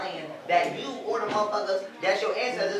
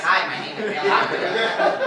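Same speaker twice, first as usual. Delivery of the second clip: slow, strained, louder white-American impression; mock white-person accent; 6 dB louder, slower than usual. Mocking people trying to talk like white people, strained white accent. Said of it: "trying to talk like white people".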